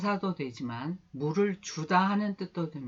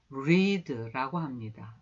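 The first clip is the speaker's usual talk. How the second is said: slow teaching read; 3 semitones lower, much slower than usual. Shown as a demonstration. Teacher introduces the word read to students, slowly. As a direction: read drawn out slowly for the class. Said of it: "같이 해보세요".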